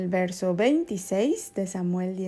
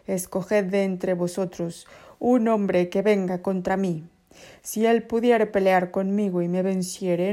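taunting giant; 4 dB louder than usual. Acted. Goliath's challenge read as quote.

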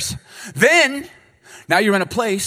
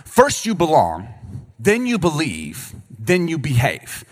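slow, deliberate listing; slower than usual. Shown as a demonstration. Preacher teaching the divine order, slow and deliberate. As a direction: spell out each step slowly. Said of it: "That's the divine order".

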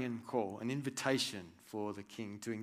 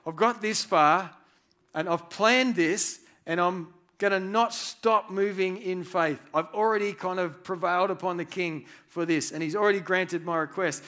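determined Nehemiah; 5 semitones higher, 8 dB louder than usual. Retold or imitated.

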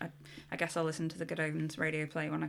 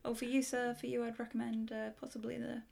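drug dealer; 7 semitones higher than usual. Retold or imitated. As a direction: offer it like a hushed pusher. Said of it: "is that a good drug dealer impression?".

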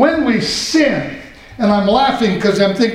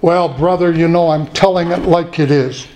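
lower, lightly voiced self-righteous brother; mock a preachy know-it-all, lower; smug churchgoer; 5 semitones lower than usual.

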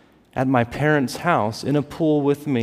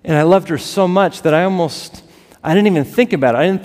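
louder, higher, pushing out the words; fervent; 4 semitones higher, 6 dB louder than usual. Real, not acted. Preacher proclaims loudly how much he loved his sister. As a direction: swell up with conviction. Quiet then loud repeated line.

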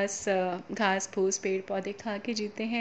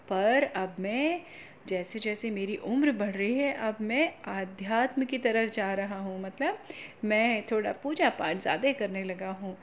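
calm heron. Acted. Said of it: "बगुला भगत ने बहुत शांति से बोला".

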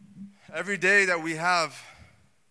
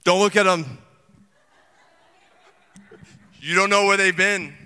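loud fearful warning; mock paranoid whisper-shout turned loud; hint of scared shopper; scared people; 10 dB louder than usual. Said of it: "They're like".

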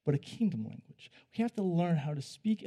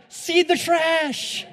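high, slow mocking voice; mocking wife voice; 11 semitones higher, 9 dB louder, much slower than usual. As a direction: drag it out, teasing, pitched up. Mimics wife mocking him.

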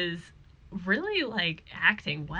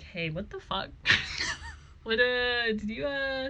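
raised-pitch, fussing questions; high-pitched Scully; 7 semitones higher than usual. Retold or imitated. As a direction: fuss over him, baffled and bright. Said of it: "Scully's like".

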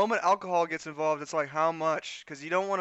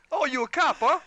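suspicious thug; 8 semitones higher, 5 dB louder than usual. Acted. Gangster suspicious of notepad.

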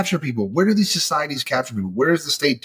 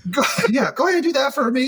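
higher, laughing through the words; 12 semitones higher, faster than usual. Real, not acted. Laughing while retelling how HR gave in. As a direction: let laughter spill into the line. Triumphant retold reply, laughing.

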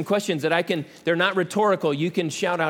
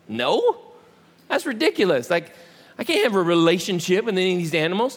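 mock-baffled Adam protesting; put-on disbelief at an absurd suggestion; playfully scandalized retort; incredulous. Acted Adam reacting to absurd question.

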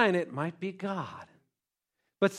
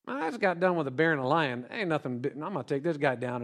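cool confidence; 6 semitones lower, 6 dB quieter, faster than usual. Acted. Voices David unimpressed by Goliath.

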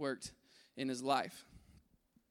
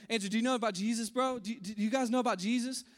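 eager spreading the word; 4 semitones higher, 4 dB louder than usual. Retold or imitated. Man spreading news eagerly.

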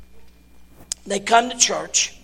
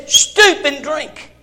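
slow sign reading; 5 semitones higher, 3 dB louder, much slower than usual. Retold or imitated.

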